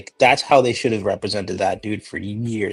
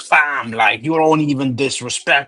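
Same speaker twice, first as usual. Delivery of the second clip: put-on Scarborough accent; 4 semitones higher than usual. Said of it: "dopey speech pattern".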